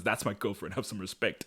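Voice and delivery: low, quiet retold warning; hushed, tight-lipped reprimand; gritted teeth. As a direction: imitate a private telling-off through gritted teeth. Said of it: "Gritting his teeth, pulls him aside".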